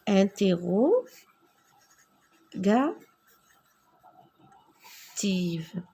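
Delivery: mot chuchoté et étiré; chuchoté très lentement. Shown as a demonstration. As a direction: souffle chaque syllabe lentement. (interrogative chuchotée, très lente)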